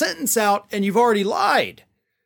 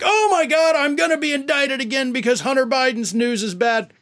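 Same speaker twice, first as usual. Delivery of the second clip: mock Trump panic; 6 semitones higher than usual. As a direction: overplay his fake alarm. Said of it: "that was so dumb".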